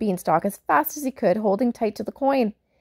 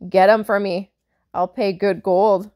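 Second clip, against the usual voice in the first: fierce giant; 5 dB louder than usual. Acted. Giant demands glasses fiercely.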